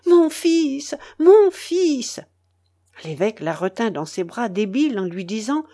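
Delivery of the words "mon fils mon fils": high, loud, crazed shout; frenzied cry. Acted. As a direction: scream it with mad rage. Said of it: "en criant avec la rage de la folie".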